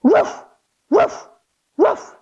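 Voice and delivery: barking like a puppy; three playful little barks; mock puppy woofs; dog barks. Shown as a demonstration. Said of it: "give me three big barks".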